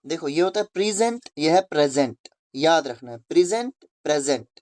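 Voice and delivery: प्रेजेंट said as prizent, sounding like the rhyme the teacher gave; teacher models प्रेजेंट for the class; pronunciation demo. Shown as a demonstration. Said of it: "रेसेंट की तरह".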